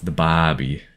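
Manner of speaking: "barbie" with a soft H in place of the R. Shown as a demonstration. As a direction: say "barbie" Australian-style, R dropped into a breath of H. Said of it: "say it with a little bit of an H in there rather than an R".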